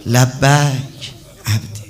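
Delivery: slow echo. Acted. God's answer repeated slowly.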